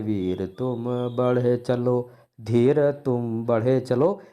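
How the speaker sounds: slow, dragged-out verse; lifeless wrong reading. Shown as a demonstration. Teacher showing how not to read heroic verse, dragging it. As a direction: drag each word with no enthusiasm. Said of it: "ऐसे नहीं पढ़ना है".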